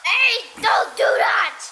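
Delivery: loud, high protest; shouting at dad. Real, not acted. Little boy yells at dad to stop. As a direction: yell it to make him stop.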